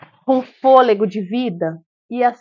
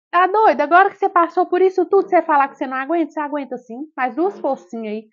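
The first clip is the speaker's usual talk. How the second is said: high, loud, quick scolding that softens at the end; rally her, half-scolding; doctor pushing the tired mother, high and loud; scolding encouragement; 5 semitones higher, 3 dB louder than usual. Retold or imitated. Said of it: "Ela foi e falou pra mim assim".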